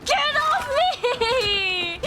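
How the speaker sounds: high yell falling off at the end; panicked cry. Real, not acted. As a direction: shriek to shake off an attacker. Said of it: "a little bit of a panic situation".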